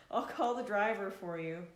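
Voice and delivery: put-on giving up on the Spanish accent, laughing; laughing through the line. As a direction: say the clerk's line while still laughing. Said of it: "Oh, I can't do an accent".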